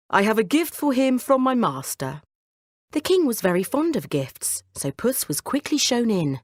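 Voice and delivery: bow and flatter the king; courtly cat. Acted. Cat presenting a gift to the king, courtly.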